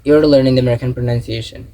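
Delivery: "You're" joined straight into "learning"; slow, careful "You're learning the American pronunciation"; repeat-after-me model. Shown as a demonstration. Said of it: "Say and repeat after me".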